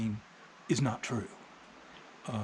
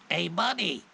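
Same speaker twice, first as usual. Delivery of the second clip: high, loud parrot call; 7 semitones higher, 5 dB louder than usual. Acted. Parrot hailing the guy next day, high loud parrot voice. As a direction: squawk out the same cheeky greeting, loudly. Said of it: "the parrot goes".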